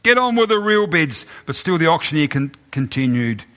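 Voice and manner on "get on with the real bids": angry shout. Acted. Angry bidder demanding the Van Goghs and Rembrandts. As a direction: shout down the auctioneer. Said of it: "Another voice shouted angrily".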